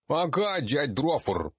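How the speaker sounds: put-on high eager kid voice; a little dwarf kid answering; child gnome voice. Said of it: "отвлёкся один из гномиков". (голос гномика-ребёнка)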